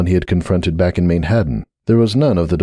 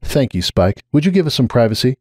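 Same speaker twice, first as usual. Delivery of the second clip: chilly; 5 semitones higher than usual. Acted. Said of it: "expression and voice chilled markedly".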